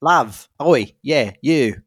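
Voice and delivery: Australian attempt slipping into British; botched Australian accent. Shown as a demonstration. Co-host testing out an Australian voice for Kylie, botched Australian accent. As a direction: try Australian and land on British by mistake. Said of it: "Oh no, that's British".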